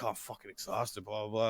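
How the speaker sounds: tired guest answering the hosts, exhausted; exhausted mumble. Retold or imitated. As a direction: sound drained and tired. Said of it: "he's like".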